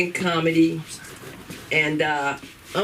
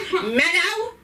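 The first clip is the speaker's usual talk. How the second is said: higher mock call with a laugh; calling out Meadow; 9 semitones higher than usual. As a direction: shout the name up the stairs, laughing. Voicing a Sopranos-style yell.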